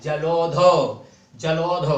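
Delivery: जलोध with the औ vowel stressed, said twice. Shown as a demonstration. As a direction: press on the औ sound in जलोध. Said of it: "औ की मात्रा पर बलाघात हो रहा है". (जलोध में औ पर बलाघात)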